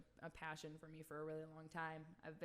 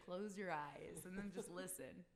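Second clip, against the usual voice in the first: soothing radio voice. Retold or imitated. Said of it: "Sometimes I just say".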